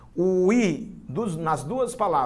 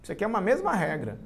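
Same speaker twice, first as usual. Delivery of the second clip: higher, quicker voice for quoted authors; pitched-up, hurried quotation; 7 semitones higher, faster than usual. Retold or imitated. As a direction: imitate scholars making their claim, high and brisk. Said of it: "Muitos autores dizem".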